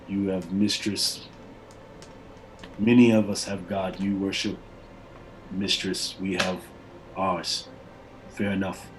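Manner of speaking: low, slow barbarian muse; musing barbarian. Acted. Barbarian leader comparing gods with Flinch, slow and low.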